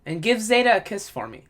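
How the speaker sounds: gushing grandma at the holidays; old lady voice. Retold or imitated. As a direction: coo it like an excited old lady greeting her grandson. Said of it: "That's what I'm gonna say".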